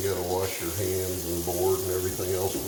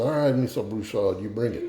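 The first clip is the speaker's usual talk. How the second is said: lightly voiced Cajun accent; Justin Wilson; 3 semitones higher than usual. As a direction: take the challenge with a hint of Cajun. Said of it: "do the Justin Wilson thing and tell a joke".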